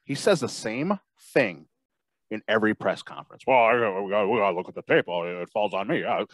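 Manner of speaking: wrestling promo. Acted. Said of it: "The speaker cuts a promo on Matt Nagy".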